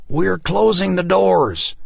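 slow, loud call across the street. A narrator's reading. Man calling from the church door, loud slow call. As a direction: warn them the doors are closing. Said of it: "Reg Todd called".

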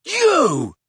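put-on shrill, loud drunken bellow. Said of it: "he bellowed".

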